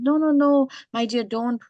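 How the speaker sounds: a quick rush of mild protest to comfort; retold reassurance. Boy consoles his crying beloved, retold reassurance.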